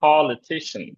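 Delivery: "Politician" stressed on pol and ti; double stress on Politician. Shown as a demonstration. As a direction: stress the first and third syllables of "Politician". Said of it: "ফ তে stress একটা".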